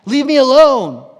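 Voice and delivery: I don't even know him, get away from me; frantic denial. Retold or imitated. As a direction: Peter brushing off accusers, loud and defensive. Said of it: "And three times he says".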